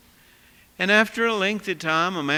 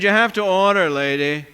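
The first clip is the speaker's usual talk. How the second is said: gruff cook; 7 dB louder than usual. Retold or imitated. Cook bullies the woman.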